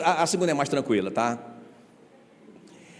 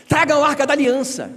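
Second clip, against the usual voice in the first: commanding call; 10 semitones higher, 4 dB louder than usual. Retold or imitated. Retold soldiers' demand.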